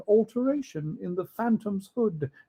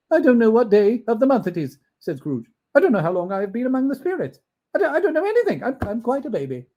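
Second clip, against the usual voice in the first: high, quick, laughing; giddy Scrooge; 6 semitones higher, 7 dB louder, much faster than usual. Acted. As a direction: babble happily.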